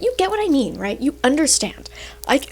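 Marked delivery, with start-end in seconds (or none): 2.3-2.4 talking with hiccups; hiccuping through the words. Real, not acted. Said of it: "I have the hiccups".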